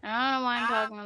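slurred, rushed speech; words running together; slurring words. Real, not acted. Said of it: "slurring all my words".

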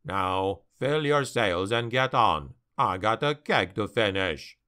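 low, gruff dwarf, impatient; a grim dwarf brushing off worry. Acted. Dwarf slayer dismisses the captain.

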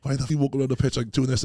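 imitating Dale shouting; retold angry yell. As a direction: bark it like a fed-up coach on the pitch. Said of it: "Dale's like".

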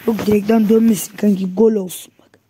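loud hoping. Real, not acted. Hoping for a goal.

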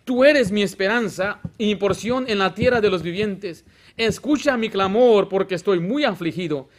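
psalm read aloud with rising force; scripture reading. Acted. Pastor reads the psalm to the congregation, proclaiming.

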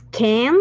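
teacher modelling "can"; can said clearly. Shown as a demonstration. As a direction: model the word can slowly for the class. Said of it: "La pronunciación es".

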